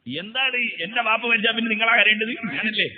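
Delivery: high, fast indignant outburst; a son's indignant retort to the scholar; angry retort. Retold or imitated. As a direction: snap back at the old man, offended. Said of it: "ഇയാൾക്ക് ദേഷ്യം പിടിച്ചു".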